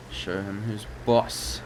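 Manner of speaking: slow, badly faked Boston accent. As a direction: drag out a bad Boston boss. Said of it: "Very terrible Boston accent".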